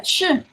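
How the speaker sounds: isolated sh, a hushing sound; sh demonstrated as a single phoneme. Shown as a demonstration. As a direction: sound out sh on its own. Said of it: "el fonema especial S H".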